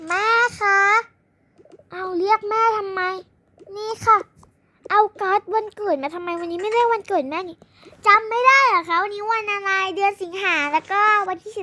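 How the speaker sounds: put-on high, loud little girl voice; child voice. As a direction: play the eager young daughter. Child voice giving card to mother. (เสียงเด็กสาวตื่นเต้นเรียกแม่)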